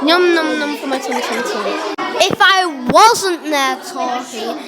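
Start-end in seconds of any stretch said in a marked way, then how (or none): 0.0-1.7 munching dinosaur. Acted. Dinosaur eating the children.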